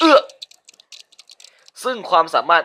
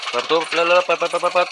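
urgent hurry; 5 semitones higher than usual. Real, not acted. Rushing to open door.

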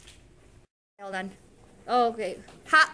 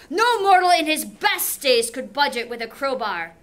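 loud, furious husband hammed up for class; raging Odysseus; 6 dB louder than usual. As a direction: let Odysseus rage at his wife, loud.

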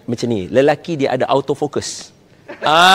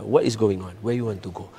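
calm gentle questions; 4 semitones lower, 9 dB quieter than usual. Shown as a demonstration. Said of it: "tanya dia".

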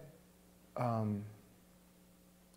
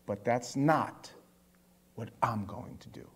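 firm reassurance; 4 semitones lower, 4 dB quieter than usual. Retold or imitated. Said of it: "grabs their face ... he goes".

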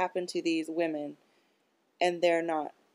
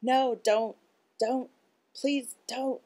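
retold pleading scream; 7 semitones higher, slower than usual. Neighbor woman heard through window, imitated as a begging scream. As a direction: imitate her desperate pleading, pitched up. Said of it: "she's screaming".

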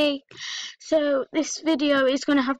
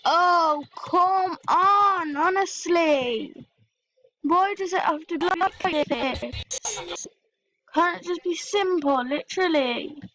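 higher, slow, drawn-out moan of frustration; exasperated whine; 4 semitones higher, slower than usual. Real, not acted. Moaning at the laptop that froze again, slow whine. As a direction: stretch it out like you can't take any more.

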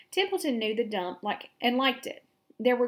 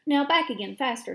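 commanding; 4 semitones higher, 5 dB louder than usual. Acted. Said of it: "Charlotte commanded".

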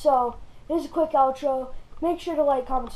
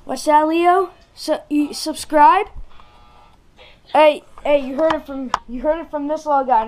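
excited puppy talk; 6 dB louder than usual. Real, not acted. Talking for the puppy.

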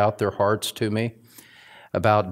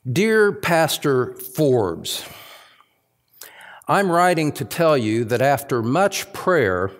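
reading a satirical letter. Acted. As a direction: read the letter as a lightly mocked aggrieved congregant. Reads a satirical complaint letter.

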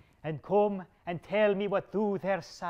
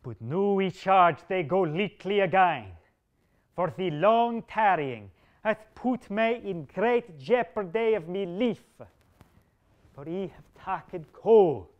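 angry king; 2 semitones higher, 5 dB louder than usual. Acted. King's furious threat to Bedivere.

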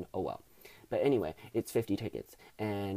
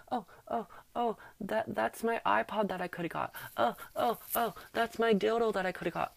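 mock wail; 8 semitones higher than usual. Mock lament over lost money.

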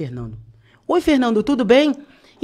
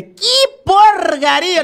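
disgusted; 10 semitones higher, 4 dB louder, much slower than usual. Retold or imitated. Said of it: "Quando eu olhei o C D".

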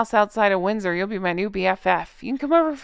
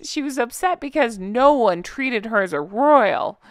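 put-on pouty baby voice; 3 semitones higher than usual. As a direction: pout it out like a sulking toddler. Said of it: "I'm doing my pouty baby voice".

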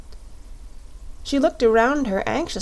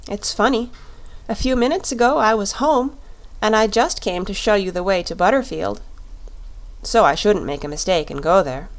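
put-on lightly raised girlish voice, puzzled; a young girl wondering aloud where everything went; little girl Dorothy. Dorothy asks the Shaggy Man about the roads, lightly voiced girl. Dorothy explains she is lost.

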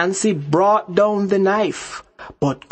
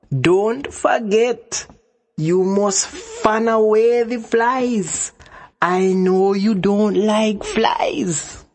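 sly Anansi; 4 semitones higher, slower than usual. Acted. Anansi instructs tied-up Cow.

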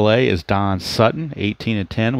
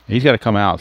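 emphatic repeat; faster than usual. Shown as a demonstration.

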